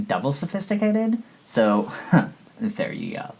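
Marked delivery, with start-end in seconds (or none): 0.1-1.2 posh put-on. Showing off her new name.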